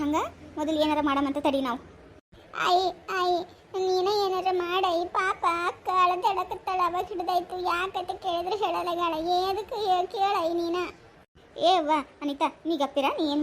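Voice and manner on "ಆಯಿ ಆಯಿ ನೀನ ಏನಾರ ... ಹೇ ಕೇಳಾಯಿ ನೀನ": put-on slow, pleading little girl's voice. Small girl begs granny to help her sister, slow child voice.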